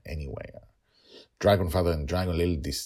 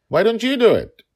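put-on high, loud childlike protest; little girl voice; 11 dB louder than usual. A narrator's reading. Daughter pushing back at her father, high and loud. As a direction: pipe up like a three-year-old.

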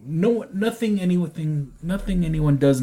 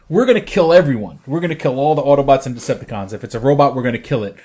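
emphatic, louder voice of a kill-them-all team; punchy, raised-volume mock threat; mock aggressive declaration; 6 dB louder, faster than usual. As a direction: imitate hardliners laying down the law, loudly. Voicing the hostile anti-Transformer team.

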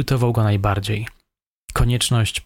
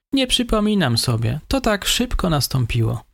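higher, meek voice of the suspect; 6 semitones higher than usual. A narrator's reading. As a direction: play the timid young killer, higher. Suspect answers in interrogation.

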